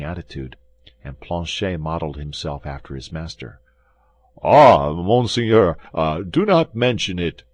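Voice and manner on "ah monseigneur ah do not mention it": louder pleading wail; terrified host pleading with D'Artagnan; pitiable voice. Acted. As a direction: beg for mercy like a frightened innkeeper. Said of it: "in the most pitiable voice imaginable".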